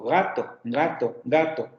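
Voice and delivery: GATO opening on a velar G. Shown as a demonstration. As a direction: repeat GATO to show the G sound at the front. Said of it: "la G de gato".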